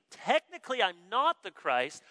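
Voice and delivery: lightly mock qualifying admission; posturing hedge. The preacher imagines himself in John's place, mock hedging. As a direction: admit it grudgingly while leaving room to boast. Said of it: "the way we like to posture and position ourselves".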